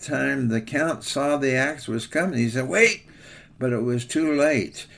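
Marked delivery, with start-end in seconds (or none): 2.7-3.0 high, sudden cry of alarm. Acted. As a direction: cry out as the axe swings down. Count sees axe coming.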